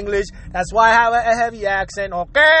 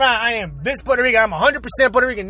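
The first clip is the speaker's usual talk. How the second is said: mocking boast; faster than usual. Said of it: "going around".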